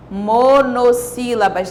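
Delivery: "Monossílabas" slowly, with MONO stretched out; drawn-out key term. Shown as a demonstration. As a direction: spell out the answer "Monossílabas" for the class, slowly. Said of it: "A palavra mono significa um". ("Monossílabas" devagar, destacando "mono")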